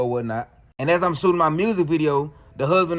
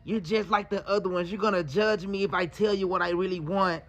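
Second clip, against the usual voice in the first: crying; 6 dB quieter than usual. Retold or imitated. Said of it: "She started crying and say".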